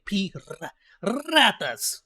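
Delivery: slow Piratas with a trilled R; rolled r. Shown as a demonstration. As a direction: Piratas drawn out, rolling the R. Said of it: "it's the R".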